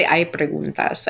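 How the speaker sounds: slow and even, each word clear, "Hay preguntas"; slow teacher question. Shown as a demonstration. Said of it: "She would say".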